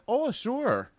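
high put-on girly voice; mock Christina. Christina pretending she just happened to be waiting, high and girly. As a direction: chirp it up high, feigning casual. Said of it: "And she's like".

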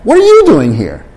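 a startled greeting to someone long unseen; surprised. Shown as a demonstration. Teacher acting out running into an old classmate, surprised. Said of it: "あんまり見たことない人".

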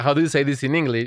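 lightly imitated Spanish-accented English; mock Spanish accent. Podcaster retelling the cooking-show slip, mock Spanish accent. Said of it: "con acento español ahí raro".

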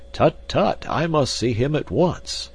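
high, fussing exclamation; urgent cry. A narrator's reading. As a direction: cry out with sudden urgency, pitched well up. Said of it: "cried the Professor".

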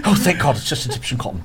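mock relief. Player finding it is only Egyptian cotton, laughing mock relief. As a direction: laugh out a pretend sigh of relief.

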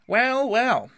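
high, loud "well, well" in character; Rat's musing exclamation. A narrator's reading. Rat to Mole about moving on, brisk exclamation.

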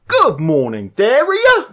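loud, high Cockney greeting "Theria" said "Thewiya"; hammed-up Cockney show intro; Cockney accent. Shown as a demonstration. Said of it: "try introducing the show with a Cockney accent".

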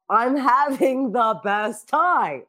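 slow, drawn-out emphatic delight; gushing. Retold or imitated. Comedian telling her manager she's happy, gushing. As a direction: stretch it out, savouring every word.

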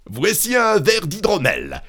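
high-pitched calling out; criant. A narrator's reading. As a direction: call it to someone hard of hearing. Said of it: "cria-t-il à la femme morte". (appel crié, voix aiguë)

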